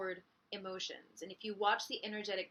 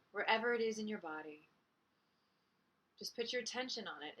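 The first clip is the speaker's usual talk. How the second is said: calm guiding voice with long pauses; unhurried meditation guide, softening into the pauses; guided meditation. Acted. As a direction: lead listeners gently inward, leaving space between phrases.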